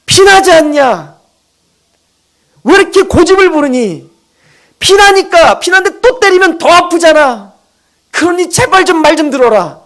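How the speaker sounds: preacher voicing God as an exasperated parent, begging; pleading parent. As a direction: plead with an obstinate child to just listen. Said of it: "그런 심정으로 때리는 거".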